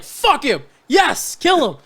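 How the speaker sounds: very high, loud cheers breaking into laughter; gleeful yelling. Retold or imitated. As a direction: scream it like a rowdy fan, laughing. Cheering the villain on.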